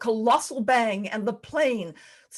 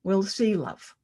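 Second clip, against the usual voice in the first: calm husband; slower than usual. Retold or imitated. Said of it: "he just calmly said".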